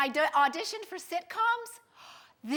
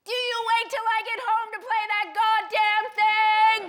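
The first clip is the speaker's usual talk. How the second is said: loud, high exasperated yell; furious acted shout, pitched up; top-of-the-lungs shout; 5 semitones higher, 6 dB louder than usual. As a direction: holler it at full volume. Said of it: "from the top of his lungs".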